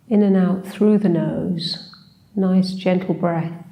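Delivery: unhurried meditation guide, long pauses between phrases; guided meditation. Acted. Teacher leading a short seated body scan, calm guided meditation. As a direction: gently guide them through a body scan, leaving space.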